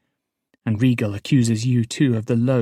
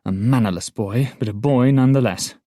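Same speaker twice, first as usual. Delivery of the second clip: defiant scolding; 5 semitones higher, 7 dB louder than usual. Acted. Patience defies the guard, loud.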